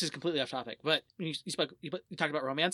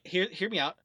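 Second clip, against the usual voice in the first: ordinary talk, nothing marked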